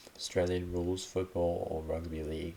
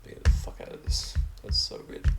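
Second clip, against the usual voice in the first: loud disbelief; 7 dB louder than usual. Real, not acted. Shocked reaction to slang list.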